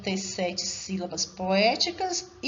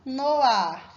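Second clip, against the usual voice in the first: "No ar" run together as one louder syllable; scanned syllable; 2 semitones higher, 6 dB louder than usual. Shown as a demonstration. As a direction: link "No ar" into one beat. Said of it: "Vamos fazer essa canção".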